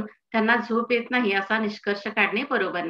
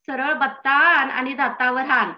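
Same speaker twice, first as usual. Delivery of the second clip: slow, higher, emphatic outburst; exasperated retort; 4 semitones higher, 4 dB louder, slower than usual. Acted. Husband refusing wife's camphor for toothache, exasperated retort. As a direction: drag out each word in acted exasperation.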